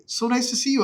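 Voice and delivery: high-pitched imitated greeting; awkward pleasantry. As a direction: mimic polite gushing at a chance meeting. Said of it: "all these awkward run-ins".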